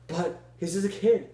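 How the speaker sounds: high, loud pleading yell. Acted. Boy yelling at Steve to spare the kid. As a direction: yell back in protest. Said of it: "Steve yelled".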